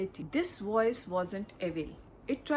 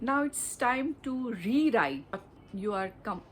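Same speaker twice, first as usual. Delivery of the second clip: ordinary talk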